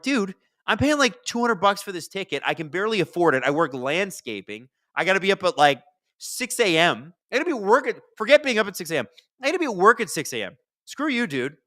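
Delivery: high, loud, exasperated retelling; indignant rant. Retold or imitated. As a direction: rant back at the rock star, fed up. Retold rant at a rock singer.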